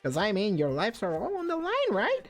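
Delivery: put-on high, sly British-accented bear mascot; mock British villain bear, gleeful; British Monokuma. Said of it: "You make Monokuma sound British".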